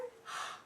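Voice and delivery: short open-mouthed intake of breath; shocked gasp. Shown as a demonstration. Storyteller shows children the bears' surprise, mock gasp. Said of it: "their mouths were open".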